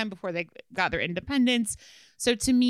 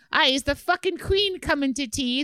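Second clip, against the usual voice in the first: bad Irish accent; 5 semitones higher than usual. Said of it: "is that a bad Irish accent?".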